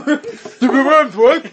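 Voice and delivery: mocking high laugh. Mocking repeat of question.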